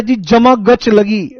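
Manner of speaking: slow, drawn-out Haryanvi reply; imitating a Haryanvi student, slowly. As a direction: drawl जमा गच like a village student. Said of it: "एक कहता है".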